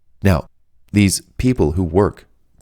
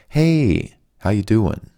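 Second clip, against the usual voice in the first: soothing vibe; 2 semitones higher, slower than usual. Shown as a demonstration. Caller greeting the utility company agent, soothing and drawn out. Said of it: "All I do is I say this".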